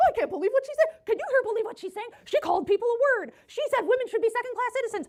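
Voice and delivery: scornful, mocking, high-pitched voice. Mocking the other debater's complaints by imitating Brian: mocking imitation. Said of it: "she is trying to mimic him".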